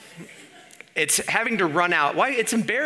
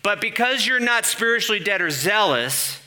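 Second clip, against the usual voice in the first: higher-pitched preacher delivery; imitated sermon; 6 semitones higher, 4 dB louder than usual. Preacher mimicking an old sermon to the congregation, higher sermon voice. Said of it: "the sermon would go like this".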